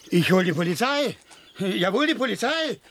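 rising, insistent call for the police; indignant threat. Acted. Angry neighbour threatens police.

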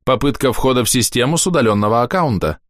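chipper text to speech voice; neural network voice. A narrator's reading. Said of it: "предупреждает голос нейросети".

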